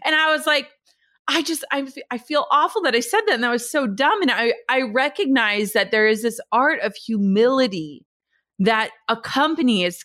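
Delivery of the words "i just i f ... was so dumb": tearful apology. Retold or imitated. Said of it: "like, tearing up".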